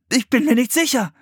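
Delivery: high-voiced, unsure admission; uncertain admission. A narrator's reading. Philipp admitting he is lost, unsure. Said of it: "musste Philipp zugeben".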